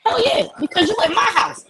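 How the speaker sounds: pitched high, cocky and challenging; defiant teen voice. Retold or imitated. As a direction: play the girl daring a fight. Girl's defiant high voice in quarrel.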